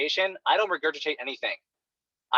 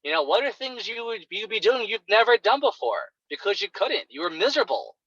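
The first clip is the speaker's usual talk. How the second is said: upbeat coaching question; 4 semitones higher than usual. Shown as a demonstration. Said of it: "And you say".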